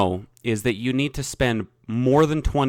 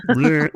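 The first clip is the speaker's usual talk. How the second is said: burp; 7 semitones higher, 4 dB louder than usual. Real, not acted. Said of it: "I'm disgusting".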